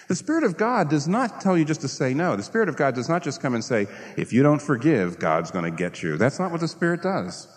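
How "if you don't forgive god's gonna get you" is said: mock hellfire preacher warning; a lightly voiced stern preacher's threat; threatening minister. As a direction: play the scolding minister threatening the congregation. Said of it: "you notice how well I did it".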